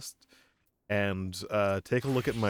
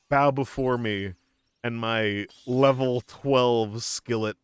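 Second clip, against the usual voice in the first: dark lord; 6 dB louder than usual. Pretend. Gloating over a weak skillet.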